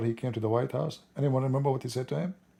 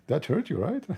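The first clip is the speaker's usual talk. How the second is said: high, quieter teasing jab; softer taunt; 6 semitones higher than usual. Retold or imitated. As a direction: lighter mocking poke. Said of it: "he said to him".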